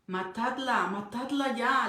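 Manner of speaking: a mild mock yell of a crowd; retold yell. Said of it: "le gritaban".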